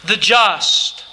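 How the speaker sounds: "the just" leaned on, each word weighted; stress on the just. Shown as a demonstration. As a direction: press down on "the just". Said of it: "emphasizes the first two words".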